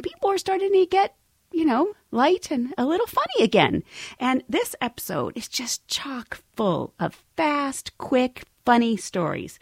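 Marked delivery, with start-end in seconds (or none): 4.2-9.6 slow, breathy whispered tease; conspiratorial whisper, slowed down; hushed whisper. Acted. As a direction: lean in and whisper it like a secret. Host teasing episode, hushed aside.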